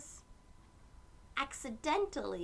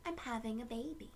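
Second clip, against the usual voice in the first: a soft, quick, smiling answer; a touch of a calm smile; smiling reply; 4 dB quieter, faster than usual. Acted. Mom answering the lady, soft and smiling. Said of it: "Mom just smiled and said".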